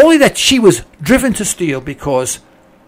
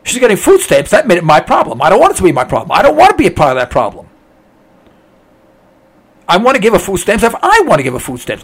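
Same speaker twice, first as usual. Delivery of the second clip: louder mock-callous rant, pitched up on the starving lines; greedy selfish voice; 3 semitones higher, 5 dB louder than usual. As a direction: play the heartless taxpayer who couldn't care less. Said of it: "see how greedy and mean I sound".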